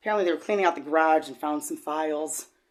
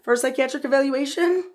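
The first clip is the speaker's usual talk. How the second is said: imitated therapist; 10 semitones higher, 6 dB louder than usual. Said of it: "her first question is".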